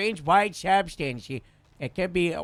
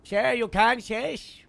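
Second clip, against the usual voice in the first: calling out; 6 semitones higher, 4 dB louder, slower than usual. Acted. Cop checks on downed man.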